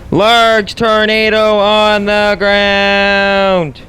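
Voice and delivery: breathless shouting over wind. Real, not acted. Large tornado touching down nearby.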